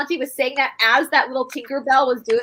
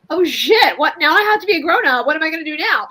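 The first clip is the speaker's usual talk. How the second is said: mock panic; 2 semitones higher, 3 dB louder than usual. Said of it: "And you're like".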